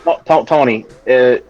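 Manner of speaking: put-on hesitant French-accented voice. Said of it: "what the fuck with this fucking accent?".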